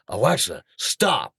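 restrained, mounting irritation; rising frustration. Retold or imitated. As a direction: order it with patience starting to run out. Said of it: "it's rising in my voice".

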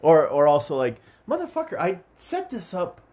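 loud, high, exasperated complaint; exasperated rant. Retold or imitated. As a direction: pitch jumps way up in frustrated venting. Venting frustration at repeated chores.

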